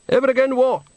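high, dazed tenor voice; mumbled question. A narrator's reading. Signor Basilica mumbling behind Bucket, high and dazed. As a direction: mumble it half-aware. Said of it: "mumbled a voice behind him".

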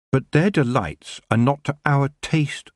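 high, firm reply; young witch. A narrator's reading. Tiffany answering the elf king, high and firm. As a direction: answer proudly.

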